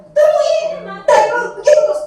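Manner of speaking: high, loud scolding snap; punishing teacher yelling at a pupil; scolding shout. Shown as a demonstration. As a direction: bark at the pupil like an angry teacher. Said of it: "nadanya tinggi, menekuk hardik, dan membentak".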